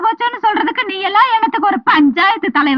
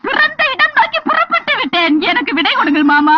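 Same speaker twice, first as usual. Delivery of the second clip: mock formal lament; 3 semitones higher than usual. Wife's mock-formal lament to portrait.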